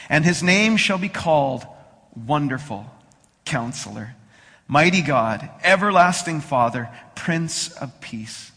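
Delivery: solemn scripture reading. Acted. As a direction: read the prophecy with reverence.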